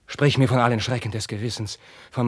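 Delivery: voiceless cry then whisper; a voiceless outcry fading to whisper; anguished cry. Acted. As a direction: recoil from the name. Carlos recoils at the father.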